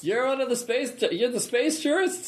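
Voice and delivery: put-on disbelieving in a South African accent. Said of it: "distinctive South African accent".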